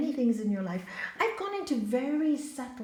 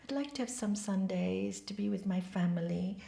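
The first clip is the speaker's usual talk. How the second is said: said nicely; 3 semitones lower, 6 dB quieter than usual. Shown as a demonstration. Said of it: "to say it so nicely".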